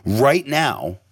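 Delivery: measured coaching with long pauses; guided meditation. Shown as a demonstration. Host leading listeners through breathwork, measured guided meditation. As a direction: talk them through holding the breath.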